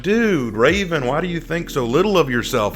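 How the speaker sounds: an emphatic, drawn-up "dude"; incredulous fans. Retold or imitated. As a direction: imitate fans protesting in disbelief. Acted quote of surprised fans.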